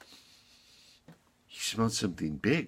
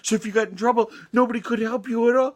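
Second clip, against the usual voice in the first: raised, higher telling-off voice; shepherd's earnest reprimand, pitched up; scolding shepherd; 11 semitones higher, 3 dB louder than usual. Acted. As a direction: scold a naughty little lamb. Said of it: "and he said".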